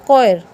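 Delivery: कोयर with a plain K sound; silent H. Shown as a demonstration. Teacher giving students the answer, K sound for CH. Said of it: "एच silent कर देंगे".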